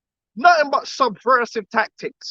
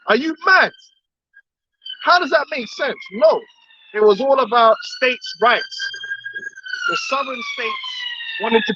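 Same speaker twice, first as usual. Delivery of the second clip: incredulous high mock. Real, not acted. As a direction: voice jumps way up in disbelief. Incredulous, mocking pitch jump.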